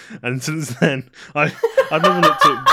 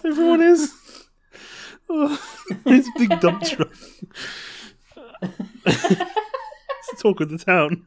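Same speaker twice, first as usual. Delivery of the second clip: squeaky high voice; 14 semitones higher than usual. Pretend. Mock high voice about dad.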